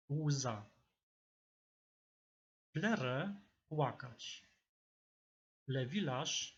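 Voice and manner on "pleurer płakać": ordinary talk, nothing marked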